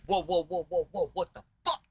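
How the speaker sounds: high, laughing mock panic; hammed-up freak-out with a laugh. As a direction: yelp it out in amused alarm. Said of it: "He's freaking out".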